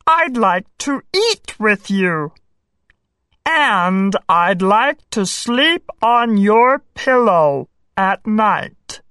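earnest little frog voice; a gentle frog asking for friendship. A narrator's reading. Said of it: "said the frog".

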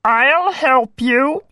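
drawn-out talking-frog voice; helpful frog. A narrator's reading. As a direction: offer it slowly as a storybook frog. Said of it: "said the frog".

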